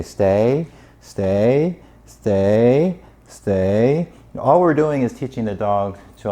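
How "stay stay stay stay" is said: nagging repeat. Retold or imitated. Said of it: "people that don't know better continually say".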